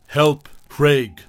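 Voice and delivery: shrill cry for help, loud and high; screeching. Acted. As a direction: scream for help at full lungs. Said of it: "screeching at the top of her lungs".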